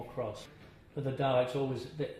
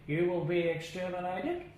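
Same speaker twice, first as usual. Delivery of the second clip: higher, louder Dalek voice with a strange timbre; 7 semitones higher, 4 dB louder than usual. Retold or imitated. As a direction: deliver it like a menacing Dalek from inside the shell. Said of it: "the voice ... was something like".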